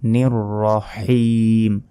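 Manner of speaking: slow "নির রহিম" with short রহ; correct pronunciation. Shown as a demonstration. Teacher correcting viewers, slow short-vowel "রহিম". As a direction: say "রহিম", never "রাহিম". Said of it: "রা নয়".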